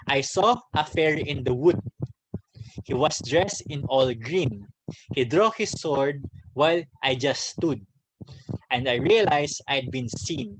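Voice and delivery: measured, rhythmic poem recital; poem reading. Shown as a demonstration. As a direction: read it like a verse to the class. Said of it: "Let me read the examples that I put".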